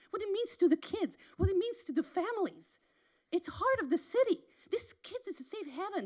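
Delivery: fighting tears as she pleads; emotional. Real, not acted. Parent near tears pleading with the city council, emotional. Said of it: "I'm emotional".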